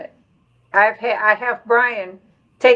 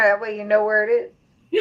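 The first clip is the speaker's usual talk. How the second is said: laughing; faster than usual. Real, not acted. Teasing remark, laugh heard.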